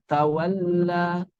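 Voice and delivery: 'tawalla' with a softly held, half-flowing l; bainiyah lam. Shown as a demonstration. Teacher demonstrates lam read as bainiyah, in-between sound. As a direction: hold the l of 'tawalla' midway, softly. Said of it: "Lam dibaca bainiyah".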